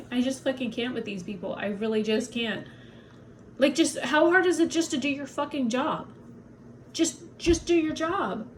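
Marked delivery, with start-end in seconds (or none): 3.6-8.5 exasperated pleading. Real, not acted. Exasperated rant at doctor.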